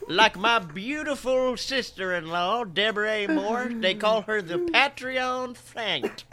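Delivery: slow, folksy guest voice; lightly voiced hick guest host; special guest. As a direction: play the visiting country emcee. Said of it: "a very special guest".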